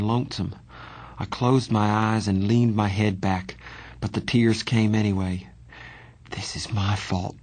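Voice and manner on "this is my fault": softer, a touch of misery; miserable. Acted. Johnny blaming himself to the younger boy, mildly miserable. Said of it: "Johnny said in a miserable voice".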